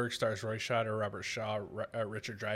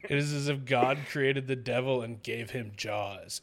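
nature documentary voiceover. Retold or imitated. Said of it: "this nature documentary voiceover".

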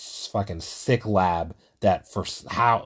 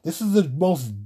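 high, loud panicked outcry, half acted; retold dream scream; 8 semitones higher, 5 dB louder than usual. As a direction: shout it like waking from a nightmare, reliving it. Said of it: "And I'm here screaming and".

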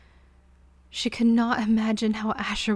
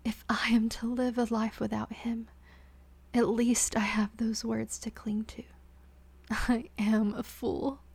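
softer, rasping whisper; rasped; 3 dB quieter than usual. Acted. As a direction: breathe it out through the pain. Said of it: "she rasped".

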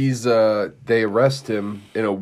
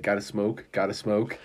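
tweaker voice. Retold or imitated. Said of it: "in his tweaker voice".

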